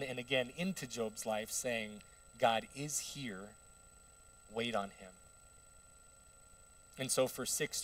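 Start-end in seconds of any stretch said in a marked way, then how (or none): 2.4-5.1 quiet reassurance. Acted. Friend Elihu counselling suffering Job, calmly reassuring. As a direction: reassure gently and unhurriedly.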